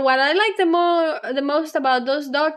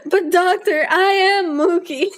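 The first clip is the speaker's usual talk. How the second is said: mock tearful; 4 semitones higher, 3 dB louder than usual. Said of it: "Woman bursts into tears and says".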